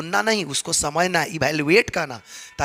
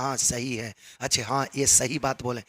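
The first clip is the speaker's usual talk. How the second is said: low, soft listener's murmur of agreement; hushed back-channel murmur; 5 semitones lower, 6 dB quieter than usual. Shown as a demonstration. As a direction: quietly agree under your breath. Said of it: "धीरे धीरे small sound में".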